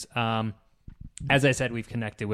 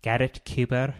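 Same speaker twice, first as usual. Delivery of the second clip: put-on Irish accent. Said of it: "My Irish version of Garrett Cooper".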